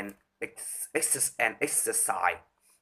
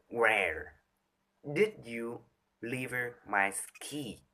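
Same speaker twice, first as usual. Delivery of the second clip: low pitch take; 4 dB quieter, slower than usual. Shown as a demonstration. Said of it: "you can do just with pitch".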